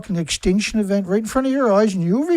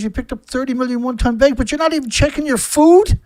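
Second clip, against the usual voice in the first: building to a real shout, higher and louder by the end; angry rant; 4 semitones higher, 5 dB louder than usual. Real, not acted. Scolding viewers who ignore their food, real furious shout. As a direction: let the anger climb into a yell.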